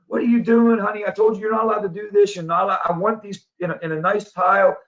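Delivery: a dad scolding his little daughter. Retold or imitated. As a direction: tell the child off. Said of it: "and he scolds her".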